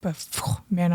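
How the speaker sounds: normal talking voice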